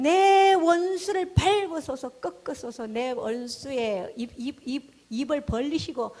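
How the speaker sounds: loud drawn-out imprecation easing back to speaking level; pouring out the heart. Retold or imitated. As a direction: cry out the psalm's plea, then let it settle. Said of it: "시편에 다윗의 마음을 다 토로하는 거예요".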